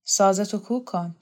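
lightly rasped, subdued order; understated husky old man; hoarse voice. Acted. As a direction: say it with a touch of hoarseness. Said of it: "با صدای خشدار گفت".

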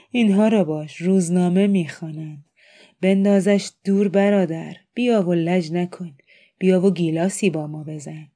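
loud, mocking drunk taunt; boisterous jeering. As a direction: jeer at them, pushing them to join in. Drunk man taunts readers, demands drinking.

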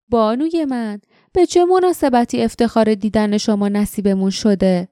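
mock the girl with fake politeness. Jinks greets Jasmine with a sneering, mocking welcome. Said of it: "جینکس با تمسخر گفت".

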